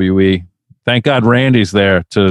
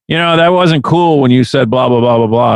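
mock complainer. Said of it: "People are like".

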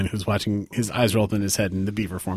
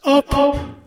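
high, slow, louder outraged cry; anguished mother; 6 dB louder, slower than usual. Acted. Mother confronts her daughter's killer, high drawn-out outrage. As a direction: plead in horrified disbelief, drawn out.

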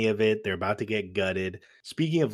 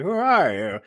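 put-on creepy old lady; 6 semitones higher, 6 dB louder than usual.

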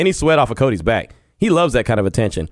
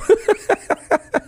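a real laugh that jumps up high; high burst of laughter. Real, not acted. Host laughing at his boss calling him a kid. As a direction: crack up at the joke.

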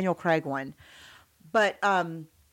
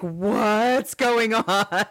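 bewildered husband; much slower than usual. Retold or imitated. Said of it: "And he's like".

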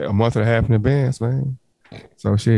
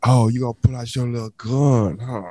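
funny boy impression. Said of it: "So is this a gay man you're impersonating".

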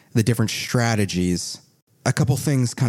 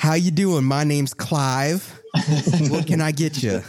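raised-pitch storekeeper character; shopkeeper introducing himself; 6 semitones higher than usual. Acted. Game master as shopkeeper greeting a customer, in raised character voice. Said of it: "The shopkeeper's name?".

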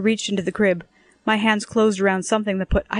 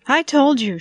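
high, loud triumphant cry; excited cry; 7 semitones higher, 5 dB louder than usual. A narrator's reading. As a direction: crow it, proven right. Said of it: "she cried".

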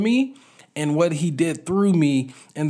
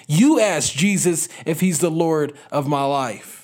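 raised, resentful throwback; upset retort. Retold or imitated. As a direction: push the question back, getting angry. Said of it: "He is getting upset".

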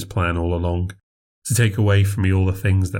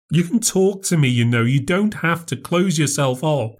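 higher, gentle plea; lightly voiced sister, pleading; 8 semitones higher than usual. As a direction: coax her to open up.

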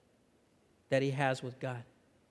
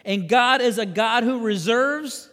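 raised, emphatic sermon delivery; impassioned preaching; 7 semitones higher, 8 dB louder than usual. Real, not acted. Preacher to congregation on God's sovereignty, emphatic preaching. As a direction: drive it home to a congregation.

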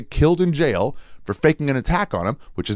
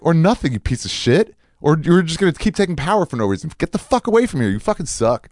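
higher-pitched mock tirade; retold going off; 6 semitones higher than usual. Retelling how he cursed out airport security, heated mock tirade. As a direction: replay cursing someone out, worked up. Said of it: "I was going off on him".

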